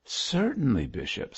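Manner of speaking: politely obliging, with a lilt; gracious. A narrator's reading. Missus Pansey lets the bishop go, graciously. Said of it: "graciously enough".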